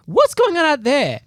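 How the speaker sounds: high, slow, wondering; puzzled at what's outside; surprised wife. Retold or imitated. Husband imitates wife baffled at something outside, high slow wonder. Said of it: "she's like".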